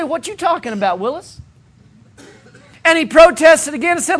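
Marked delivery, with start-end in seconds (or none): 0.0-1.4 Arnold impression. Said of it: "They'll say".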